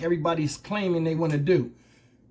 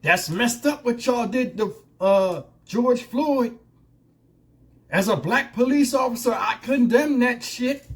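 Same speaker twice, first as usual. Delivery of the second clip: a hint of a chief playing the fighter, higher; lightly voiced police chief, pressing hard and slow; half-hearted imitation of a chief condemning, pitched up; mock righteous chief; 4 semitones higher, slower than usual. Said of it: "She up there like she fighting".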